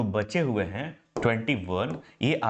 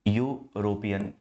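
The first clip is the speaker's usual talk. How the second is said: यूरोपियन drawn out slowly, each syllable यू-रो-पि-यन clear; slow pronunciation demo; 2 semitones lower, much slower than usual. Shown as a demonstration. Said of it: "आप इसका उच्चारण कहो".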